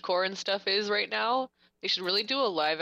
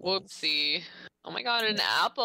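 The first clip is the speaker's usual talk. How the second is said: goofy clueless sitcom voice. Retold or imitated. Mocking the movie heroine.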